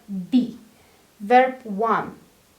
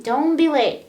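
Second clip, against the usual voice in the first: rude tone; 3 semitones higher, 4 dB louder than usual. Shown as a demonstration. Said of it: "you sound a little bit rude".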